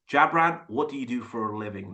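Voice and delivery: easy native English delivery, toned down; imitated native English speaker. Coach echoing Tom for the learners, imitated native English accent. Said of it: "Look how he said".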